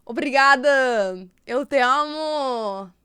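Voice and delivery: drawn-out Portuguese demo; performed Portuguese pronunciation, lingering on endings; Portuguese accent. Shown as a demonstration. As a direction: show off a Portuguese accent, stretching the words. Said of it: "I can also speak Portuguese".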